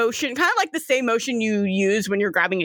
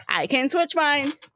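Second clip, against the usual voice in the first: playful taunt; 3 semitones higher, slower than usual. Acted. River repeats it with a dance.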